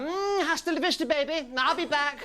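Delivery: a weak Austrian Arnie; Schwarzenegger. Acted. Comic's rough Austrian Arnie that needs work. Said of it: "Arnold Schwarzenegger".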